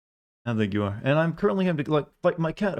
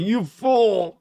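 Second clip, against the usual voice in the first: catchphrase shout; 9 semitones higher, 4 dB louder than usual. Acted. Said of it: "I need to bring Google, like".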